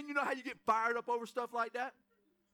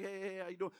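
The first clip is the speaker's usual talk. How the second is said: tired greeting; 5 semitones lower, 6 dB quieter, faster than usual. Retold or imitated. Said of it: "I'm a little tired and everything".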